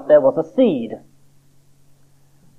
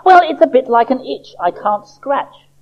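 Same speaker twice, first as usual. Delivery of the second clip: high, loud little-seed voice calling the doctor; a small worried seed bursting in; Sammy the seed voice; 10 semitones higher, 4 dB louder than usual. Acted. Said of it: "Sammy explained".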